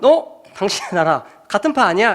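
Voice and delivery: 놀란 듯 높게 치고 들어가는 추궁; 수상한 사람 알아본 여종처럼 캐묻기; 여종의 추궁. Retold or imitated. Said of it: "이렇게 말했을 때". (베드로를 알아본 여종, 놀라 높게 캐묻는 목소리)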